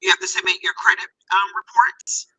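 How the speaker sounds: muffled, as if underwater. Real, not acted. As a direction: voice muffled by a hand over the mic. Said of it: "Sound like you're underwater a little bit".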